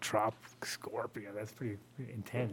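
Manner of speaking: hushed, breathless wow; awed whisper. Acted. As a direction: whisper it in awe. Awed at the first place winner.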